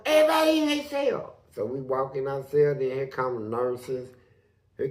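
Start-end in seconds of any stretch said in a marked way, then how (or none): 0.1-1.4 guard's shouted order. Retold or imitated. Guard calling inmates back to cells, shouted order. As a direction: holler it out as a command to everyone.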